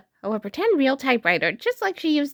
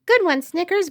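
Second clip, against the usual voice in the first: shouting; 7 semitones higher, 3 dB louder than usual. A narrator's reading. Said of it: "Bluey and Winton shout".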